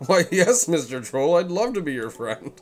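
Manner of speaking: high, loud gushing reply; eager hero voice. Pretend. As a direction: gush it like an overeager friend. Voicing hero's eager reply.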